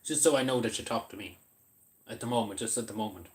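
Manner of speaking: talking through a mouthful of bun; words round a bite of food; mouth full. Real, not acted. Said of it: "trying to not talk with my mouth full".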